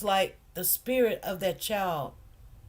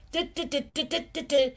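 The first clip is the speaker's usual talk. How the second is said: mocking puppet noise; 5 semitones higher, faster than usual. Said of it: "doing his hand like a puppet".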